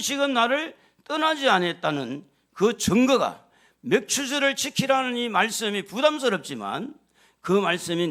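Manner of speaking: loud, high, fervent proclamation; full-force preaching. Acted. Pastor assuring the congregation, fervent and loud. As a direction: ring it out with conviction.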